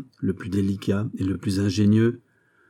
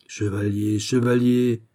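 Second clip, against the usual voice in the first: mildly overwhelmed, building appeal; a touch of giddy disbelief; dizzy with alarm; slower than usual. A narrator's reading. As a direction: call out as if seized by vertigo, restrained. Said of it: "dit Fouquet saisi de vertige".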